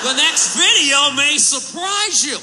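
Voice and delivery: slow cheesy TV teaser; talk show host voice. Retold or imitated. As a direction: hype up the next clip.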